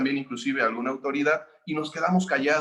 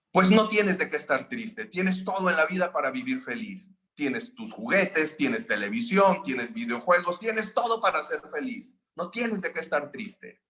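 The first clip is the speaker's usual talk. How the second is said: higher, scolding mother; annoyed mother lecturing; 3 semitones higher than usual. Retold or imitated. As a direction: lecture him that he has everything. Madre molesta confronta al hijo. (una mamá molesta que regaña al hijo)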